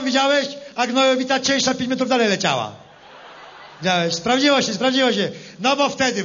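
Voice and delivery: lightly voiced rustic politician, rally style; a farmer-politician addressing the crowd, hammy; Lepper impression. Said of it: "jestem lepier". (parodia Leppera, lekko zagrana)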